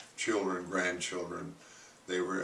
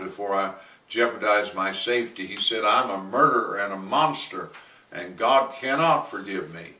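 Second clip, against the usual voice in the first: retold bellow, only a little louder; half-hearted echo of George's bellowing confession; mild mock bellow; 4 dB louder than usual. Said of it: "more like bellowing".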